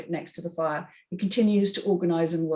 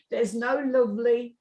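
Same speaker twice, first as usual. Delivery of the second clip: Derby accent; 3 semitones higher than usual. Shown as a demonstration. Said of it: "my Derby accent".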